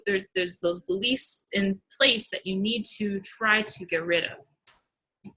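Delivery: breathless and fading; short of air, trailing off; out of breath. Real, not acted. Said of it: "I'm out of breath".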